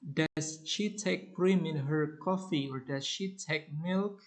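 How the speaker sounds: milk? with a lift at the end; rising on milk. Shown as a demonstration. Teacher modelling an either-or question, rising. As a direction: end the choice on a rise, milk?. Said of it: "form both alternatives at end".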